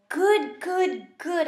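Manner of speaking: high, loud hamster squeal; squeaky excited cheer; excited exclaim. A narrator's reading. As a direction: burst out with delight. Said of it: "I exclaimed".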